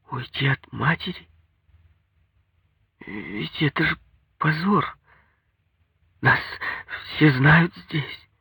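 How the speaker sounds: high, timid protest from the wife; pleading, high female character voice; pitiful wife. A narrator's reading. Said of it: "Она жалко улыбнулась".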